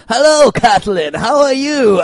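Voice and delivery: high, lilting put-on season one accent; Littlefinger. Host mocking his accent in season one, high put-on accent. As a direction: pitch the accent up, exaggerated. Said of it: "his first accent to s".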